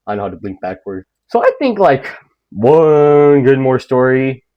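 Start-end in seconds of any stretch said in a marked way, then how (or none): 0.1-1.1 softer, quick creepy murmur; mock eerie hush. Reflection answering the viewer in a soft mock eerie purr. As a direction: purr it like a smug ghost. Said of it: "And she's like".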